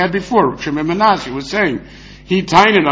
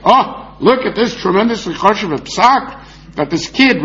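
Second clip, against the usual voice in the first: higher, lightly acted awe; mock amazement; 5 semitones higher than usual. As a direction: quote it as if mildly impressed. Acting out imagined awed citation of kid.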